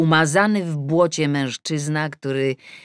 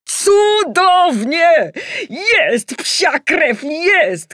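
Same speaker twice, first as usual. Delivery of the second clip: very high, loud and slow cheering; shout; 9 dB louder, much slower than usual. Acted. Father and daughter cheering the goal on TV, loud shout. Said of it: "krzyknęli oboje".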